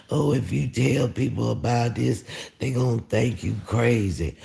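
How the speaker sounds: high, sing-song taunt; lightly voiced jeering tormentor; mocking taunting voice. Taunting voice in his head warns him, mocking.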